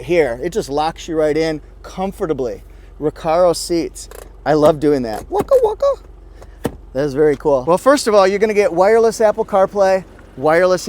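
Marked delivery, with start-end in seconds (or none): 5.3-5.9 very high, silly squeal; playful cartoon voice. Reviewer playing with the Recaro seats, very high silly voice. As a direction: go way up high and goofy. Playful noise after seat demo.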